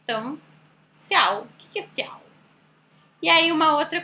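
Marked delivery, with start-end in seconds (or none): 0.9-1.4 "ciao" begun with an S sound, "siau"; misread pronunciation. Shown as a demonstration. Teacher showing the C-I misreading, "ciao" said as "siau". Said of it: "tem som de si". 1.8-2.2 "ciao" said as "siau", with an S; soft-s "see-ow" for "ciao"; misread pronunciation. Shown as a demonstration. Teacher questioning the misread word, "ciao" said as "siau". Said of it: "tem som de si".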